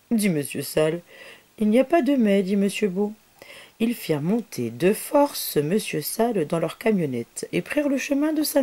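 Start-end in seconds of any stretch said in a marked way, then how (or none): 1.6-2.4 louder, higher no-nonsense line; firm insistence. Acted. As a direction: overrule him firmly. Monsieur Beau overrules protest.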